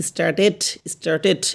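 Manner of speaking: "স্টার্টেড" with a clear e before the last consonant; e-vowel ending. Shown as a demonstration. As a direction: say "স্টার্টেড" as star-tet. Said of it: "একার মতো উচ্চারণ করতে হয়".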